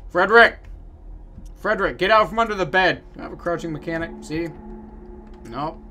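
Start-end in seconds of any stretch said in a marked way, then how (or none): 0.1-3.0 calling out. Acted. Calling a kid out from hiding.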